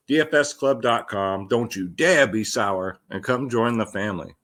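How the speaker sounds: hoarse, worn-out voice. Real, not acted. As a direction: talk through a voice that's going. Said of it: "And there goes my voice again".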